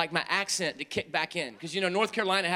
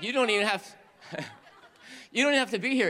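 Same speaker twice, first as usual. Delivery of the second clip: imitating Zach laughing; 4 semitones higher, faster than usual. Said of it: "He just like".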